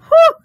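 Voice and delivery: relieved whew. A narrator's reading. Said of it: "I said".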